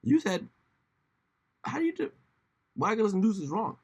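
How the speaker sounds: mock critic. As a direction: taunt like a heckler. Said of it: "they're like".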